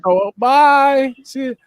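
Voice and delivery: high, put-on Brit-Aussie goodbye; mock British-Australian accent. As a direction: chirp it like a bad Australian-British mash-up. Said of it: "I don't know what that accent was".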